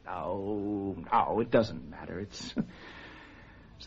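very low, soft, defeated voice; quiet resignation. Acted. Husband gives up on his wife, low and resigned. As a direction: let the anger drain away, almost inaudibly.

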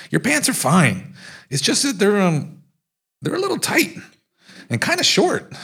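rising, strained with suppressed giggles; fighting not to laugh while teasing; holding back laughter. Retold or imitated. To Kingston about his shorts, suppressing laughter.

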